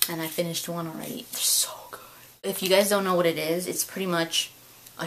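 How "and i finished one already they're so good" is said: whispered, a bit guilty; whispered confession. Real, not acted. Admitting to viewers she ate a pack, whispered. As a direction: murmur it like a secret.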